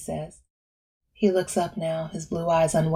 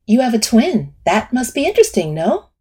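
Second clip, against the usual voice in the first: therapist voice; 6 semitones higher, 9 dB louder than usual. Acted.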